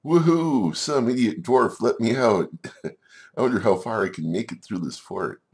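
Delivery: high, loud whoop of an escapee; gleeful disobedient spider. Acted. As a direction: crow with glee as a naughty little spider on the loose. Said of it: "this particular disobedient giant cave spider said".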